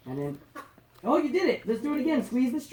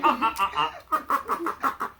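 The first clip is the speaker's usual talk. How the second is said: duck laugh imitation; 3 semitones higher, 5 dB quieter, slower than usual. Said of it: "Sounds like a duck laughing".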